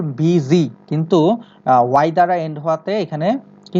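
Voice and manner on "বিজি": "বিজি" drawn out in two beats; syllable by syllable. Shown as a demonstration. Teacher showing two syllables, "বিজি" said syllable by syllable. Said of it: "two, দুই syllable".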